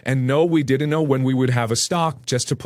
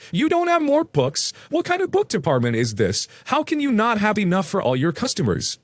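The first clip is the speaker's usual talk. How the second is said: high, incredulous sarcasm; unimpressed, sarcastic; 7 semitones higher than usual. A narrator's reading. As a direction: question them in pitched-up disbelief. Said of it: "in an unimpressed, sarcastic voice".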